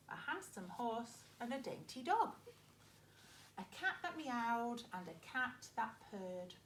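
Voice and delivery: put-on lively read-aloud for young children; story narration. Teacher reading a farm story to her pupils, lively. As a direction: read it like a picture book to a class.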